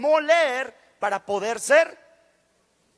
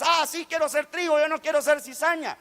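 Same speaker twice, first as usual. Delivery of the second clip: mock-eager, higher-pitched quote; lightly acted eagerness; eager claim; 4 semitones higher than usual. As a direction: chime in keenly, imitating naive enthusiasm. Voices believers' eager naive claim.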